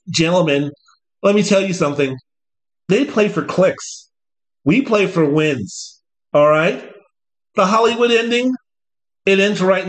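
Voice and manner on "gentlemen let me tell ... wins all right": slow, measured coach speech; a hint of a stern coach; lightly voiced coach. Coach addressing his players, slow stern speech. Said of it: "I don't expect Dan Lanning to go out there and say".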